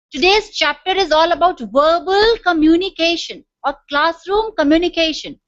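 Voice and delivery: "verbal communication" and "classroom communication" stretched out slowly; emphasis on key words. Shown as a demonstration. Teacher announcing today's chapter, "verbal" and "classroom" emphasized. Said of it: "here I'm emphasizing on few words".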